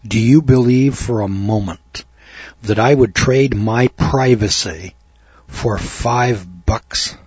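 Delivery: slow, drawn-out mock-caustic retort; caustic sarcasm. Wife rebuffing the cashier's small discount, caustic and slow. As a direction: imitate a ticked-off customer, measured and pointed, dragging out the last words. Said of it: "kind of with a caustic, sarcastic tone in her voice".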